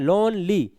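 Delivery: लोनली read in two beats, लोन-ली; two-part लोनली, split before ली; broken into syllables. Shown as a demonstration. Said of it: "हम इसको दो बार में पढ़ रहे हैं".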